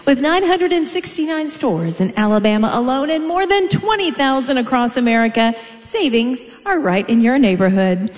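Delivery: upbeat announcer ad read; bright promo voice over the PA; sponsor ad read. Acted. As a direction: sell it like an arena sponsor spot. Arena announcer reads sponsor ad.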